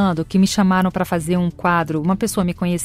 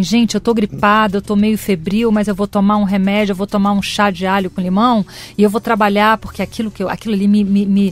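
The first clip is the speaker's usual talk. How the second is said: determined mock pep talk; 4 dB louder than usual. Imitating her eager self pushing through flu.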